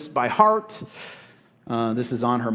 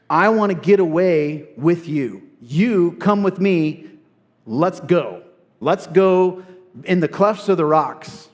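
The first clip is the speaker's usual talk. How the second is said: paraphrasing the lover; 2 semitones higher, 4 dB louder than usual. Acted. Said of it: "what he says in verse fourteen".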